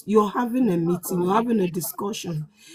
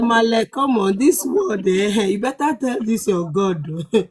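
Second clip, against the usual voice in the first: retold exasperated protest; 2 semitones higher than usual. Speaker recalling a complaint to Male about hardship, exasperated. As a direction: protest as if fed up.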